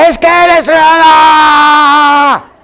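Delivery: acting out a quarrelsome reply; mock angry retort. Preacher imitating someone snapping back in a fight, mock shout.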